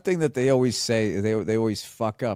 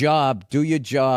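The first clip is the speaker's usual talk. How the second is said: Boston accent; 3 dB louder, slower than usual. Shown as a demonstration. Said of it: "say the line again".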